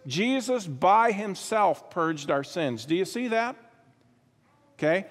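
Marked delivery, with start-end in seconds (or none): 0.6-2.8 "by himself" slowed and weighted; slow preacher's emphasis on "by himself"; stress on by himself. Shown as a demonstration. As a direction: lean on "by himself" to make the point. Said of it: "just a little sidebar note there".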